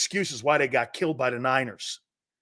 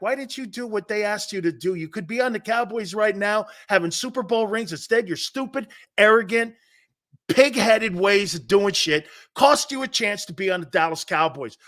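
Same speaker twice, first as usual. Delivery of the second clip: retold scolding; 3 semitones higher than usual. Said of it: "read me the riot act".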